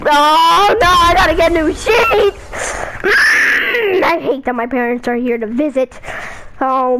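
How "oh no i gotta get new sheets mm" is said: mock despair. Son groaning in mock despair.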